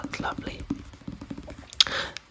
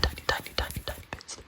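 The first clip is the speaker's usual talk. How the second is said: tingly asmr mouth sounds; faster than usual. Acted. ASMR trigger word repetition.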